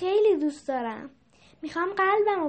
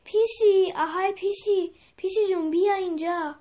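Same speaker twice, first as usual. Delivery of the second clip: higher voice calling to the cat; 7 semitones higher than usual. A narrator's reading. Mehrabun calls the cat over, higher calling voice. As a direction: sing out an eager call. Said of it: "مهربون از همونجا که بود اونو صدا کرد".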